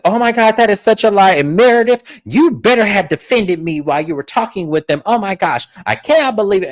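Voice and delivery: hammed-up indignant fit; spazzing out. Lisa denies leaking to the blogs, spazzing out. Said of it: "she begins spazzing out".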